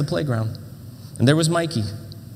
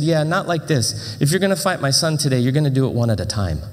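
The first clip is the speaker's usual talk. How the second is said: firm dad. Retold or imitated. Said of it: "he said".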